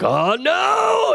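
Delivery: high, swooping cry of dismay; mock outburst. Comic reacting to his mother snapping, mock outburst. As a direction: swoop up high into a drawn-out shout. Mum snaps, acted outburst.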